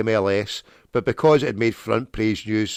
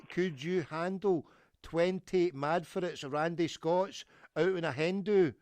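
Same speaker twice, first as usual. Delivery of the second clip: slower, spaced-out repetition; slowed repeat; 7 semitones higher, 7 dB quieter than usual. Real, not acted. Caller repeating booking to puzzled staff, slowed down. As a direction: take it slowly so they can follow. Repeats himself after "I'm sorry, what?.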